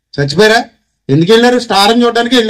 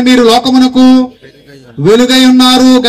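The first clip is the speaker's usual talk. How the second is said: slow, loud, spaced-out recital of the verse; loud proclamation; 2 semitones higher, 3 dB louder than usual. Shown as a demonstration. Preacher urges the congregation to say it aloud, loud and slow. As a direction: call it out for the crowd to echo. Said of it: "చెప్పండి, గట్టిగా చెప్పండి".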